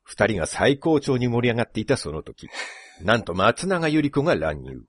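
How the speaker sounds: dramatic reality-show voice-over; mock show narration. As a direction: narrate the love clash like breaking drama. Parodies the show's dramatic narration.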